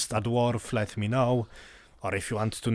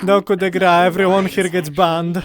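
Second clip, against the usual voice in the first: mock stern warning; 6 semitones higher, 9 dB louder than usual. Mock threat to players.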